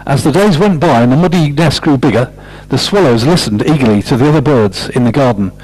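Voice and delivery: lively picture-book read-aloud; story reading. Acted. Storyteller reading aloud to children, lively manner.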